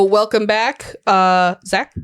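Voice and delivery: slow, drawn-out zombie moan. Pretend. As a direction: groan it out like a zombie. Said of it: "Welcome back in the zombie voice".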